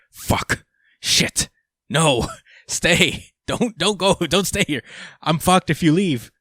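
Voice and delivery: high, pleading voice that breaks into laughter; panicked begging. Retold or imitated. Code begging Ada not to go, high panicked pleading. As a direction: beg her to stay like you're doomed without her.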